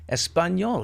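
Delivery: Espanol drawn out in a Spanish accent; lavish Spanish pronunciation of Espanol. Shown as a demonstration. Professing love for the language, Spanish accent.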